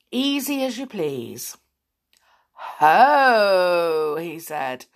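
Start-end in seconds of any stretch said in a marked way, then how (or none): 2.5-4.2 a pleased booming ho; gloating wizard. Acted. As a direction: gloat over the caught children. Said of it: "smiling all over his bearded face".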